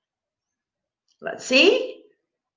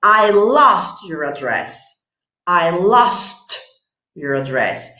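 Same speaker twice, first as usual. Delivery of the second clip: slow model answer; slower than usual. Shown as a demonstration. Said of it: "The correct answer is".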